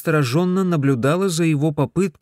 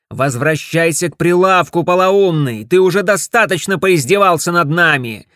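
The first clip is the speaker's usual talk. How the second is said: loud, high scolding; angry wife; 5 semitones higher, 7 dB louder than usual. Acted. Wife shouts at her husband to get back to the stall. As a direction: bawl him out, broom in hand.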